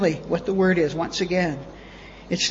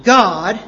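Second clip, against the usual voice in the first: God set apart, louder; stress on God; 5 dB louder than usual. Shown as a demonstration. Preacher showing the original word order, stress on God. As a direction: punch God as a single emphatic word. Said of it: "for emphasis".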